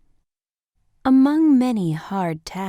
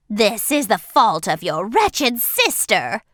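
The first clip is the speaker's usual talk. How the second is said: louder, anguished widow crying out; unhappy cry; 5 dB louder than usual. A narrator's reading. Widow blaming the younger sister, louder and anguished. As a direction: cry out in despair and blame. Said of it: "the unhappy widow cried".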